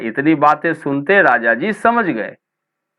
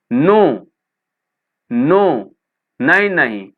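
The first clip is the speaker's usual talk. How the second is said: mild mock cry; 3 semitones higher than usual. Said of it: "Sita cried loudly".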